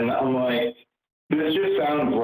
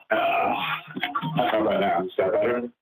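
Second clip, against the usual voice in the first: underwater. Real, not acted. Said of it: "Eh, not really".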